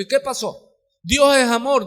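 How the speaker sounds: normal talking voice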